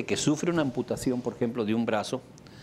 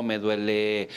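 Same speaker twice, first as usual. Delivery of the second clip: usual speaking voice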